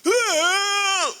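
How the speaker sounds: high, drawn-out mock scream of fright. Preacher imitating grown men screaming in fear, high mock scream. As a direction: scream like a terrified man, hammed-up. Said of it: "esos hombres".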